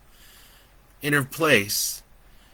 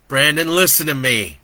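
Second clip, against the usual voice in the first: urgent plea; 4 semitones higher, 8 dB louder than usual. Acted. Joe urges Brandon.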